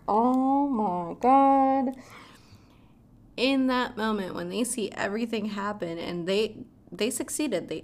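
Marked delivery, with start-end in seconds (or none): 0.1-2.0 slow, louder stunned oh my god; shocked gasp. Retold or imitated. Viewer recalling her shock at the twist, slow and stunned. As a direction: drag it out in disbelief. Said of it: "And I'm like".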